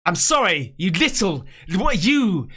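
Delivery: upset, lost for words; real anger breaking into exasperation; emotional anger. Real, not acted. Viewer upset by a baby's killing, emotional and angry. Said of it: "sorry about getting emotional".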